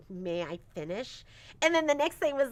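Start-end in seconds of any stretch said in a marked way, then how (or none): 0.1-1.2 imitating a sweet, polite girl, softer and lower. Mom quoting daughter Violet asking nicely, sweet. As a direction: say it kindly and politely. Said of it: "it was so sweet that she was like".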